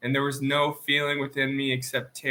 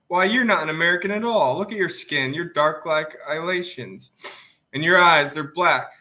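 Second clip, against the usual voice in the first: quick, rising, sharper and louder toward the end; heated taunt; 3 semitones higher, 4 dB louder than usual. Acted. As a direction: jab at him with growing heat. Camilla's heated racial taunt.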